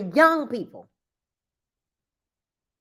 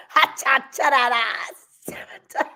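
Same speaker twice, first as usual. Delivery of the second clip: drawn-out whispery mock tongues; mock tongues chant; much slower than usual. Joking about folks showing out at church, mock tongues. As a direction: imitate someone caught up at the altar. Imitating praise utterance at altar.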